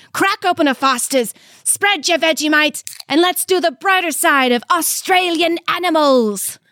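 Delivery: rising hype call to kick off the show; hype shout. Real, not acted. Host kicking off the show with a hype shout. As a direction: shout it out to start the chaos.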